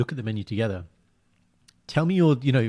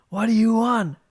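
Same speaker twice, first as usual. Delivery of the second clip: high-pitched, louder mock question; imitating the guy in the meme asking his girlfriend, high mock; 11 semitones higher, 4 dB louder, slower than usual. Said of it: "basically it's like".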